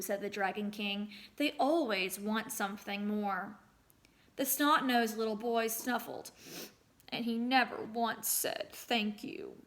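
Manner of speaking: storyteller reading aloud to a class; story narration. A narrator's reading. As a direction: tell the folktale to the children.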